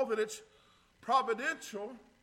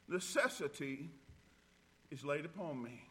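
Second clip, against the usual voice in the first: solemn text; 9 semitones lower, 9 dB quieter than usual. Shown as a demonstration. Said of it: "I say this this morning".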